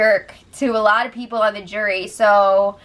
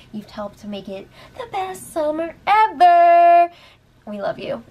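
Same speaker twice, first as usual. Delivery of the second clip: gushing thanks; 6 semitones higher than usual. Real, not acted.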